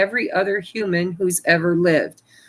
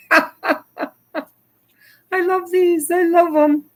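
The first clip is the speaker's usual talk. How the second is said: laughing delight; 10 semitones higher, much slower than usual. Real, not acted. Delighted by the funny cards.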